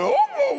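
high howling dog cry. Retold or imitated. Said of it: "it just got louder and louder".

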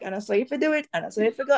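lightly voiced Jamaican patois lilt; a hint of Jamaican patois. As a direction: slip into a mild Jamaican patois. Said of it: "I'm like".

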